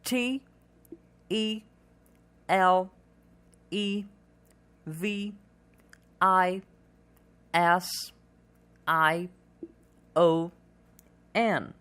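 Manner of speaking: each English letter name "T", "E", "L" said apart, with a pause between; one letter at a time, "V", "I", "S", each clearly separated; spelling out letters. Shown as a demonstration. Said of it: "ouvir corretamente a pronúncia de cada uma das letras".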